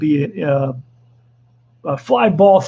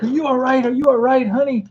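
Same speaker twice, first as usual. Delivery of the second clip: higher, lightly voiced worried wife; a hint of the wife fussing over him, pitched up; imitating worried wife; 4 semitones higher than usual. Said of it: "my wife is like".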